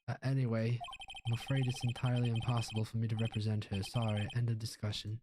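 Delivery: lightly Southern pompous lawyer; put-on Southern gentleman refusing; dismissive lawyer. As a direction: brush off the young caller.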